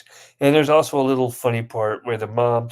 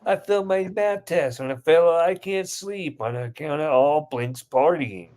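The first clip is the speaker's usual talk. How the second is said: higher-pitched kid's excuse, acted out; mock whining complaint; 4 semitones higher than usual. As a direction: play a complaining kid in a retold skit. Kid complaining in retold skit.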